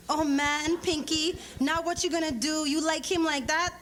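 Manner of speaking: a nosy best friend egging her on; teasing friend Leslie. Acted. Leslie teasing Pinky about Mateo.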